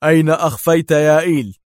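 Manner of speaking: forceful, severe questioning; stern demand. A narrator's reading. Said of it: "سأله دار في صرامة".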